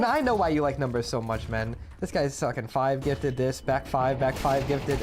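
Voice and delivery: hyped streamer shoutout voice; YouTuber voice. Acted. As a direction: read the gift like a YouTuber. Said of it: "He just got his YouTuber voice again".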